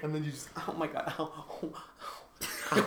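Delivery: pained ow from a foot cramp. Real, not acted. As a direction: wince through a sudden cramp. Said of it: "Did you just get a foot cramp?".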